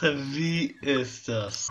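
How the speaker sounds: very slow, dragged delivery; slow drawn out. Shown as a demonstration. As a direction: stretch every word slowly. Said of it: "repeated slower".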